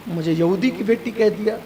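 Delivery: quietly weeping wife repeats the insult; tearful whisper-like complaint. Retold or imitated. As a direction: let the hurt collapse into a soft, weepy repeat. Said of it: "یہ رونے لگی".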